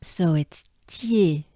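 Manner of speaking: slow, leaning on tier; stressed tier. Shown as a demonstration. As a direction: draw out the ending of tier. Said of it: "we accentuate the E part".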